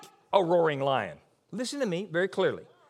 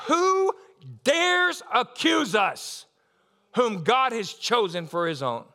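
high, loud, slow preaching shout; a ringing, drawn-out shout of defiance; proclaiming shout; 5 semitones higher, 4 dB louder, slower than usual. Acted. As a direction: thunder it out to the church.

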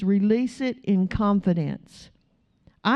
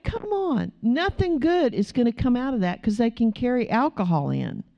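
retold upset protest; 2 semitones higher than usual. Pastor objecting to late-night bingo hall, mildly upset. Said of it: "I was just really upset".

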